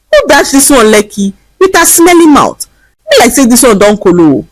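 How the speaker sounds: lightly voiced jeering man in pidgin; mocking bystander. A narrator's reading. Crowd in Lagos jeering at the beggar, mild mocking voice. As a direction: tease her like a street mocker. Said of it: "began to mock her".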